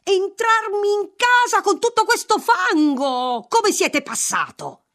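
high windy cry; gusting windy whisper. A narrator's reading. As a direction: shriek it like the wind. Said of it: "con la voce del vento". (grido ventoso e acuto)

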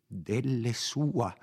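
a startled exclamation; exclaiming. Acted. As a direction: gasp it out in shock. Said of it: "esclamò Perpetua".

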